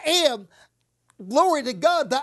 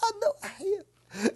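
higher, voiced answer, falling at the end; 7 semitones higher, 5 dB quieter than usual. Real, not acted. Believer claiming strength aloud after whispering. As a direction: say it aloud, firmly. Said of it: "You say you're strong".

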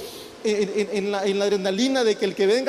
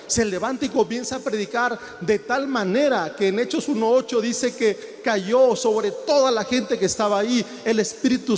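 fiery preaching. Acted. Pastor stirring the church about Peter's sermon, preaching with fire. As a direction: build the congregation up to Pentecost.

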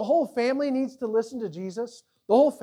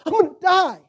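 higher, louder mock terror; mock panic; 9 semitones higher, 9 dB louder than usual. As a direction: squeal it like you're sure you'll die. People terrified before the Lord.

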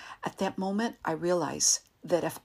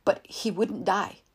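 loud agitated shouting; 3 semitones higher, 4 dB louder than usual. Acted. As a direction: shout the dream out, still rattled. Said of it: "He was still shouting".

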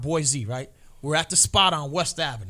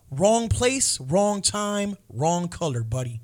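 cop's verdict; 5 dB louder, slower than usual. Retold or imitated. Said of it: "This is exactly what he said".

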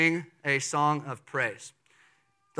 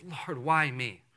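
humble question; 2 semitones lower, 3 dB quieter, slower than usual. Shown as a demonstration. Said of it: "a right response ... is".

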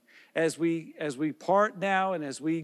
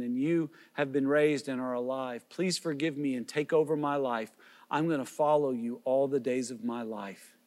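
lower, hushed sinner's prayer spoken for the listener to repeat; model prayer; 3 semitones lower than usual. Shown as a demonstration. Preacher models a prayer for listeners to pray, low and earnest. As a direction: lead them gently through a prayer of repentance, a touch lower. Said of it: "Say something like this".

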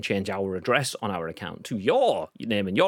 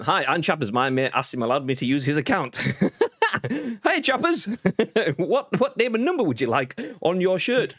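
laughing; 7 semitones higher than usual. Real, not acted. Reading viewer message, laughing.

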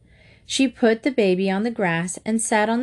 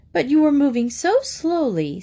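worried mother; 6 semitones higher than usual. A narrator's reading. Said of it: "said his mother".

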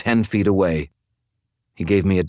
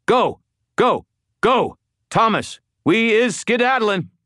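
high, rapid-fire shouted orders; urgent crying out; 3 dB louder than usual. A narrator's reading. Wizard calls Thomas to retreat from ghouls, urgent high yell. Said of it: "I cried".

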